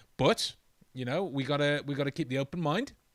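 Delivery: ordinary delivery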